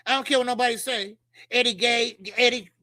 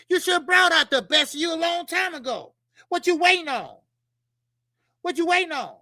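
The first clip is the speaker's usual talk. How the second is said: heated shout; 5 semitones higher than usual. Real, not acted. Host shouting at the fighter to get going. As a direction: demand an answer, raising the voice.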